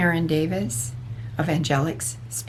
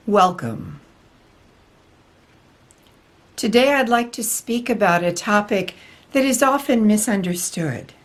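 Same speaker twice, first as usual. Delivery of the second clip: lightly voiced spiritual teacher, measured and deliberate; channelled Archangel Michael. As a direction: deliver a solemn channelled message with long pauses. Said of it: "Archangel Michael especially has been interested in coming through".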